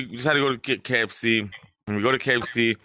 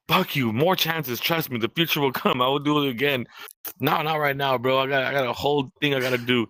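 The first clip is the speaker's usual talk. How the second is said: higher, worked-up comeback; heated retort; 4 semitones higher than usual. Retold or imitated. Shooting back at laughing cousin, worked up and higher. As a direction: fire back at him, rattled.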